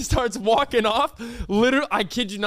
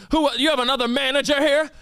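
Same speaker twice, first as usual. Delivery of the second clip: high-pitched mock indignation; irate demand; 8 semitones higher than usual. Old customer demanding another manager, mock irate. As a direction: press them testily, as the old man.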